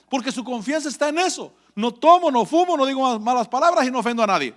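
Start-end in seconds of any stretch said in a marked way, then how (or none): 1.8-4.5 a touch of a smug self-righteous voice; mock self-righteous. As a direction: parrot the proud churchgoer. Mocking self-righteous churchgoer.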